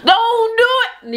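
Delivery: slow, rising warning, high on the last do; slow teasing warning to Miss Sophia; warning singsong. Retold or imitated. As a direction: drag out the warning like a knowing aside. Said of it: "I'm like".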